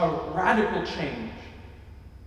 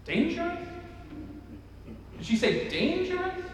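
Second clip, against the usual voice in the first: incredulous; 11 semitones higher, 7 dB quieter than usual. Retold or imitated. Incredulous listeners' reaction.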